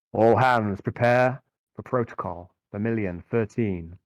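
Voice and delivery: slow cold voice over comms; cold pious accusing. Acted. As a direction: announce it like a distant inquisitor. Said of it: "the Inquisitor's voice".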